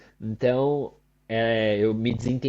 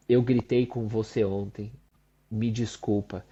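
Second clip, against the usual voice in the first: sincere apology; 3 semitones lower than usual. Retold or imitated. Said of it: "E aí eu vou lá e falo".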